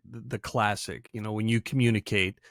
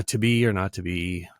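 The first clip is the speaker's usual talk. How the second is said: bland rendition; 4 semitones lower than usual. Shown as a demonstration. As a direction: recite Shakespeare blandly, pitched down. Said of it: "give the worst rendition".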